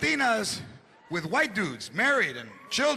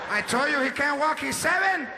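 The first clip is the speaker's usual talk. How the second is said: insistent protective mom; 3 semitones higher than usual. Retold or imitated. Mother repeats more insistently.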